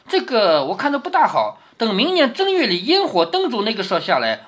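string them along with feigned doubt; teasing reluctance. Acted. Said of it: "你看王熙凤要吊胃口了".

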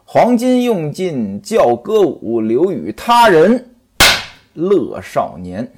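slow, measured poem recital; chanted storyteller's opening poem; verse recital. Acted. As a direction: intone the opening verse slowly.

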